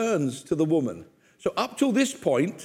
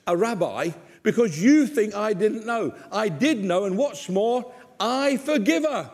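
indignant Jesus; 4 semitones higher than usual. Acted. Jesus rebukes Simon, acted.

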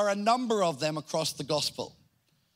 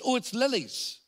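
higher-pitched, emphatic announcement of a name; emphatic exclamation; 6 semitones higher than usual. Shown as a demonstration. Speaker greets someone seen on the street, emphatic exclamation. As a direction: exclaim it in recognition, pitched high. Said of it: "with an exclamation mark".

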